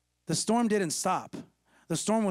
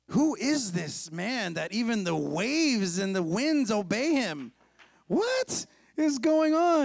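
mock awe; 2 semitones higher, slower than usual. Disciples wondering who commands waves and winds, mildly hammed-up awe. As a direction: marvel slowly, word by word. Disciples acted amazed at Jesus.

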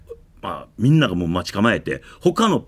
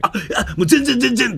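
imitating him stammering through a laugh, higher pitched; flustered reassurance; 13 semitones higher than usual. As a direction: brush off the apology, a bit flustered and eager. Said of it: "とか言いながら".

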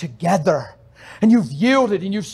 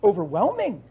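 tearful awe; 3 semitones higher, 6 dB quieter than usual. Retold or imitated. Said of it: "driving down the road crying".

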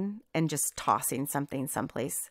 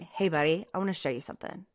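patient teaching; faster than usual. Retold or imitated. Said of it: "instead of getting on to them going".

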